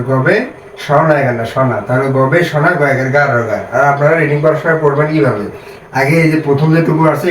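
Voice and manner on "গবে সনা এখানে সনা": slowed, chunk by chunk; slow syllable reading. Shown as a demonstration. Teacher guiding students through syllables, slowly. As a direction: read the syllables out deliberately. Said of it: "তাহলে গ বয়কার বে".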